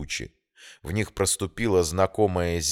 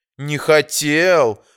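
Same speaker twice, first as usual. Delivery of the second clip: sarcastic, mocking echo with raised pitch; 8 semitones higher, 6 dB louder than usual. A woman repeats a man's words back to him: mockingly asking back. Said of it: "насмешливо переспросила Эмилия".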